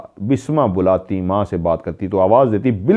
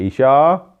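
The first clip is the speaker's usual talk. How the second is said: raised calling voice, drawn out; calling out a name; 5 semitones higher, 3 dB louder, much slower than usual. Retold or imitated. Mother calling daughter from another room, a raised call. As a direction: call her name across the house like a mother.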